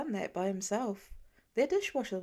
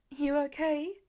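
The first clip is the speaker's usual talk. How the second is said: tense demand; 4 semitones higher, slower than usual. A narrator's reading. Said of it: "Pete demanded, voice tense".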